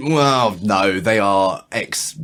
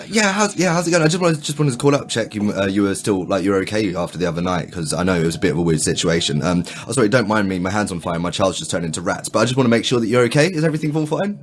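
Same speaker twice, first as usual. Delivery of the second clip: phone call voice. Acted. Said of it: "Taz changes the intro speech".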